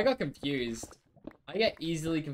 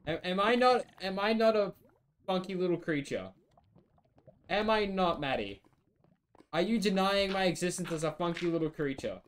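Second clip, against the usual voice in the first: raised pitch, hammed-up offended protest; a high, huffy, pretend-wounded plea; mock indignation; 4 semitones higher than usual. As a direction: play at being deeply insulted. Mock offended questioning of friend.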